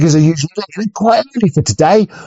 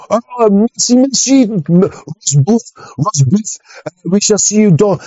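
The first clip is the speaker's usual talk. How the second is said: put-on French coast guard accent; 4 semitones higher, slower than usual. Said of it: "Coast Guard would be like".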